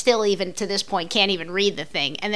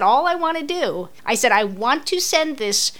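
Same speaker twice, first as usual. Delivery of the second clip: retold anger; slower than usual. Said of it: "Now I was pissed".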